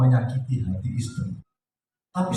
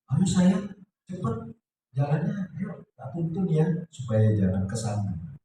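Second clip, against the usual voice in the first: gentle newlywed tenderness; 3 semitones higher, 4 dB quieter than usual. Acted. Newlywed husband helping his wife walk, gently. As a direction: coax a sweetheart along tenderly. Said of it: "omongnya lembut sekali".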